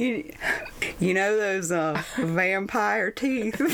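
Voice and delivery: slow, halting try at a Southern drawl; hammed-up Forrest Gump-like Southern accent; bad Southern accent. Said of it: "It sounds so bad when I try to do the accent".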